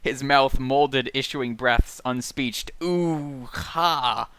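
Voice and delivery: slow, drawn-out poetic recitation; literary read-aloud. Acted. Podcaster reading stream of consciousness aloud, slow poetic intoning. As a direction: intone it, letting each phrase fall away. Reads novel passage aloud.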